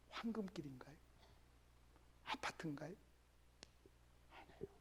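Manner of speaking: soft whispered teasing questions; hushed rhetorical asides to the congregation. Acted. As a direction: whisper the wrong guesses, then deny them.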